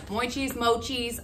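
mochis said first as moy-cheez, then as moh-cheez; slowly sounding out mochis twice, unsure which is right; trying pronunciations. Shown as a demonstration. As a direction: test two ways of saying mochis, slow. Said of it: "I don't know how it's exactly said".

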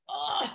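effortful "ugh" of dread; reluctant groan. Retold or imitated. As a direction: groan as if bracing for a plunge. Forcing herself into body.

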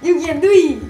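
high, very loud mock-Southern cheer; Southern accent. Player copies friend's Southern teacher imitation, high loud accent. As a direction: shout it like a gushing Southern teacher. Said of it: "she's, like, Southern accent".

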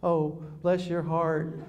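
slow, honeyed "Oh, bless your heart"; a hint of a Southern lady drawling it; mock-sweet dismissal; sweet Texan put-down. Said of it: "they'd just go".

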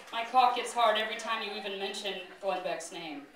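low, soft mock-erotic confession; hushed confession. Colbert confessing to Jon in fan fiction, hushed.

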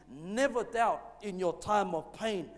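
slow, deliberate, leaning hard on Never; slow emphatic statement. Shown as a demonstration. Pastor gives the congregation a line to repeat, slow and emphatic. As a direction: lay out the line slowly so the church can repeat it. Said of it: "Let's say that together".

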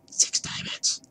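whispering in awe; awed whisper. Real, not acted. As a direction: murmur the count, spellbound. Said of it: "I got seriously distracted by diamonds".

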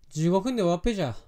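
quick Fukushima dialect with "終わっぺじゃ" falling at the end; Fukushima accent. Shown as a demonstration. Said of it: "福島なまりだ、これが。".

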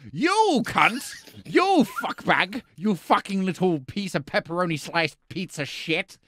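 high-pitched mock outrage; angry insults. Judge abusing the defendant, hammed-up anger. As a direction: hurl insults, pitched well up.

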